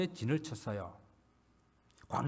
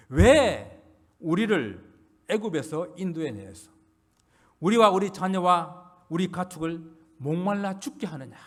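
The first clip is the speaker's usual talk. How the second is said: drawn-out, slightly louder mock protest; retold shouted complaint; 5 dB louder than usual. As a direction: voice the crowd's complaint, leaning hard on the opening word. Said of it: "소리 지릅니다".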